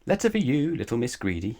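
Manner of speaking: a hint of a jolly postman's greeting; cheerful postman. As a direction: call it out cheerfully at the door. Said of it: "he said cheerfully".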